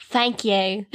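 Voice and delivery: mock-British thanks; put-on British accent. Holding back when tipped at work, British accent. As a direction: slip into playful British. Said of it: "with the British accent".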